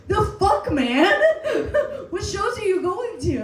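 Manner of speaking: high-pitched, laughing incredulity; hammed-up bewildered protest; mock disbelief. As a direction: react as if utterly baffled. Acted baffled reply to comedian.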